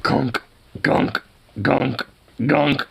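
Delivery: imitated banging noise. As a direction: imitate repeated thuds on a desk. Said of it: "was literally just like".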